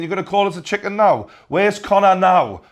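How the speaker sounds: leaning into his face, daring him; aggressive confrontation. Retold or imitated. Khabib confronting Artem in lobby.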